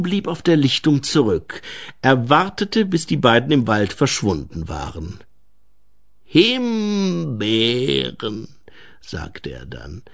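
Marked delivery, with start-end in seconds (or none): 6.2-10.0 hoch gedehntes, leicht angewidertes Gnomenwort; angewiderter Gnom. Acted. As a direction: zieh das Wort hoch und lang. Gnom verrät seinen Abscheu allein. (leicht angewidert)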